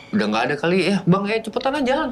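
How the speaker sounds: jittery friend in the fog, a little frightened; scared urging. Retold or imitated. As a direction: plead with your friend to move on quickly. Scared friend urges walking fast.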